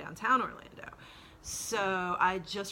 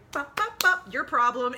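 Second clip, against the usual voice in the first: sheriff quote; 6 semitones higher, 7 dB louder than usual. Retold or imitated. Sheriff handing her off.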